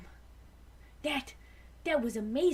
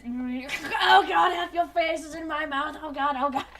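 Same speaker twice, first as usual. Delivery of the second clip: mock panic; 3 semitones higher, 6 dB louder than usual. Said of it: "And this".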